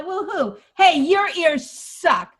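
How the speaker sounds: mock heckle. Shown as a demonstration. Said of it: "pretend that someone says that".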